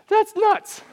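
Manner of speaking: a laugh, then a high, amazed "that's nuts"; laughing disbelief. Real, not acted. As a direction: laugh it off in wonder. Amazed at Jesus' instruction.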